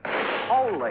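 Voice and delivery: sudden high yelp as the shot goes off; jolted exclamation; startled cry. Acted. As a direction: caught off guard by a gunshot, blurting out. She fires the gun suddenly.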